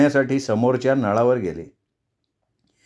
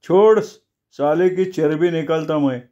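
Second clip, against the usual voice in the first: fierce shout; 3 semitones higher than usual. Acted. Chamanya wrestling the rooster.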